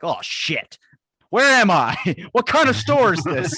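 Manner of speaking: confused shopper cracking up; laughing mock panic. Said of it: "You're like".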